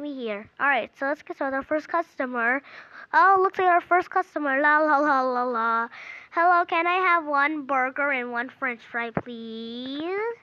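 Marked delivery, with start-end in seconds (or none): 3.1-5.9 light sing-song la-la as a customer approaches; playful role-play. Pretend. Child playing store as first customer walks up, playful singsong. 6.3-10.4 politely ordering with a long rising please; lightly voiced customer, drawing out "please"; pretend customer. First customer ordering from the burger seller, lightly acted politeness.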